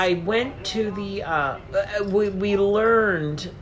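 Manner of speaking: words slipping with drink. Real, not acted. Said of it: "I'm getting drunk".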